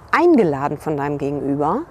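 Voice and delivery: eingeladen leaned on with a rising-falling swing; stress on eingeladen. Shown as a demonstration. Coach points out the key word, eingeladen stressed. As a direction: hit eingeladen and let the pitch swoop. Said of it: "die Betonung liegt auf eingeladen".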